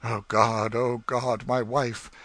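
natural-pitched, theatrical male hero; husband's answering cry. Acted. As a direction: echo the reunion cry in the hero's voice. Husband echoes wife's cry.

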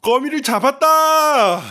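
excited cheer. Real, not acted. Father cheering a game win.

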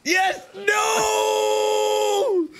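high triumphant then anguished shout; yelling yes then no; excited yelling. Real, not acted. Launch then failure.

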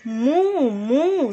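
a light, sing-song cow's moo, drawn out. Retold or imitated. Teacher to children, imitating a cow's moo. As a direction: moo for the children like a friendly cow. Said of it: "says the cow".

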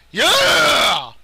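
high, loud victory cry; triumphant scream. Real, not acted. Gamer finally killing Dragon Faust, triumphant scream. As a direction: let out a drawn-out cheer. Kills enemy.

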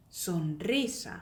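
"sonrisa" with a trilled r after n; slow "sonrisa" with a Spanish trill; rolled r. Shown as a demonstration. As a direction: roll the "ri" in "sonrisa". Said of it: "강하게".

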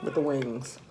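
chewing between words; talking while eating wing; mouth full of chicken. Real, not acted.

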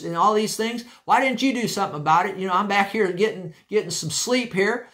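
Jesus woken from sleep, scolding the disciples; stern scolding. Retold or imitated. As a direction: scold the disciples for doing nothing. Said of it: "I guess I would say it this way".

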